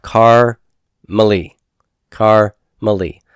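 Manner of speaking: "kar" set apart from "mali" by a pause; divided into syllables. Shown as a demonstration. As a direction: sound out "kar, mali" in pieces, then repeat. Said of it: "how I got the syllable divisions".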